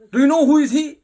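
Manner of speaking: high, loud demanding question; indignant challenge. Acted. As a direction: challenge her hotly. Balaram challenging Yashoda.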